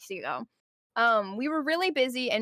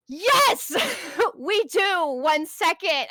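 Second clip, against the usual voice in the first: loud, high, over-eager yes; mock service reply about to crack; exasperated helpfulness; 6 semitones higher, 5 dB louder, much slower than usual. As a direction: burst it out, forced and frazzled. Retold snapped answer near tears.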